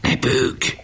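sharp whisper into a friend's ear. A narrator's reading. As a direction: hiss it, don't let them hear. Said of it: "Barabás a fülébe súgott". (súgva, halkan rászólva)

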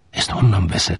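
usual speaking voice

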